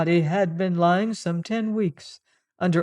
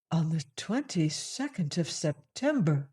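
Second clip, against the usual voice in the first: stunned echo; 6 dB quieter than usual. Acted.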